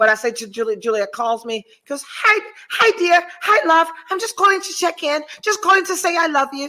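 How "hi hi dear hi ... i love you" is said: bad, butchered, put-on English accent, pitched up. Retelling a phone call from the woman you're cruising with, in a butchered impression of Juliet's English accent. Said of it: "Juliet has a beautiful English accent, and I'm fucking butchering it".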